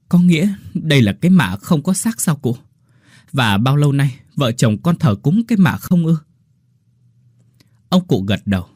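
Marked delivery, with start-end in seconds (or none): 0.1-6.2 tearful question. Acted. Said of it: "rưng rưng nước mắt lên tiếng".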